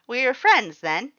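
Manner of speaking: high, loud, eager question; hopeful Papyrus. A narrator's reading. Papyrus asks the human if they're friends, high and eager. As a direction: hang on the hope of friendship.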